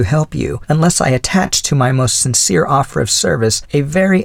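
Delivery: a hint of the old widow's voice; elderly lady voice. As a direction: speak as a kindly older woman. Mrs Callender's long offer.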